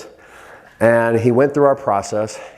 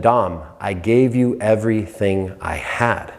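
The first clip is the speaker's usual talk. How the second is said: heartfelt confession; 3 semitones lower, slower than usual. Retold or imitated. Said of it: "And he said".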